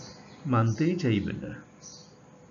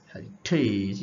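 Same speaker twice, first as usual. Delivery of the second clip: heritage with the first syllable swallowed, weight after it; second-syllable stress; 3 semitones lower, much slower than usual. Shown as a demonstration. Teacher repeating the example, heritage stressed after its first syllable. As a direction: stress the latter part of heritage, slowly. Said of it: "শেষের সিলেবলে জোর দেয়া".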